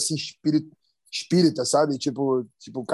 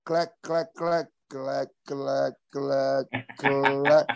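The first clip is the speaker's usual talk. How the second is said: imitated clicking; 3 semitones lower, much slower than usual. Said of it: "que vai assim, ó".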